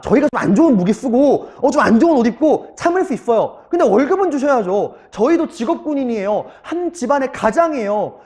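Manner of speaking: pleading appeal, pitch rising. Retold or imitated. Soldiers begging their official for wages, pleading. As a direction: make an earnest case as a wronged soldier. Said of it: "하고 막 애걸복걸한 거야".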